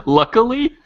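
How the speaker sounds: high, loud disbelieving question; can't believe what he heard; incredulous. Real, not acted. Incredulous reaction to story.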